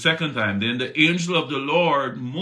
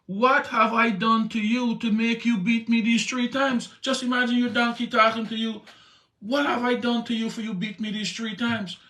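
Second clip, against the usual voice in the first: talking donkey; 8 semitones higher than usual. Acted. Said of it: "and it said to Balaam".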